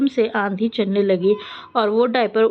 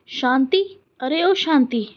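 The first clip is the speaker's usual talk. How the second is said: calling out; 3 semitones higher than usual. Acted. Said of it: "क्यों चिल्ला रही है".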